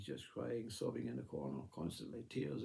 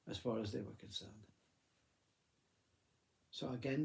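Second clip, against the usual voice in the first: ordinary delivery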